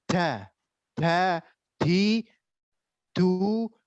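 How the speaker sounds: wrong Javanese-accented da, di, du. Shown as a demonstration. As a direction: say the d the Kejawen way. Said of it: "Salah dialek Kejawen gini".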